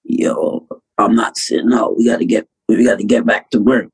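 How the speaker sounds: low, raspy imitation of a drugged patient; lightly rasped, pitched a bit down. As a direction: imitate croaking just out of surgery. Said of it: "I got raspy voice".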